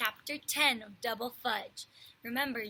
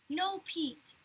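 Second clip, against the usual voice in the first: put-on higher, louder childish cry of no; screamed no; 7 semitones higher, 4 dB louder than usual. A narrator's reading. Little brother begging Pete not to tell, screamed. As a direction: wail it to stop him. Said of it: "Fudge screamed".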